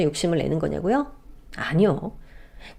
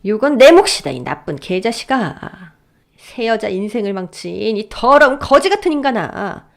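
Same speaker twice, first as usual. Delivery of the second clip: shouting louder. Acted. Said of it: "더 큰 소리로 고함을 질렀어요".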